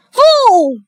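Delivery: high, full-voiced shout; loud, high, drawn-out call; loud cry. A narrator's reading. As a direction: cry out to summon the fool. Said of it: "cried Malvolio".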